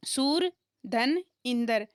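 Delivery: सूर धन इंदर spaced out slowly; teacher slowly splitting सुरेंद्र into parts; slow split. Shown as a demonstration. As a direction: break the word into its parts, slowly. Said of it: "splitting सुरेंद्र into parts".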